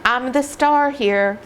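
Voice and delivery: high, lightly voiced attention-seeking dog; hint of a show-off dog saying pick me; cheeky dog voice. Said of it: "Ripple saying".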